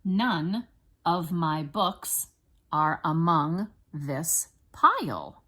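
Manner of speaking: slow, each word set apart; deliberate classroom count-along pacing. Shown as a demonstration. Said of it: "while we count it out".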